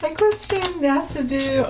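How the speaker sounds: fighting back giggles as she speaks; cracking up. Real, not acted. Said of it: "I'm cracking up".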